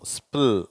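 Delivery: ஸ்பில் as s, p, l run together; SPL blend demo. Shown as a demonstration. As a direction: isolate ஸ்பில் as one blended sound. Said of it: "மூணு சேர்ந்த மாதிரி உச்சரிக்கணும்".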